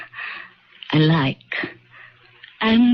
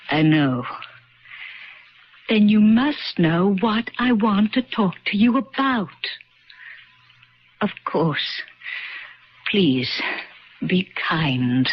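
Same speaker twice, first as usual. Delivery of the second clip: put-on old woman. Old woman answering her younger self.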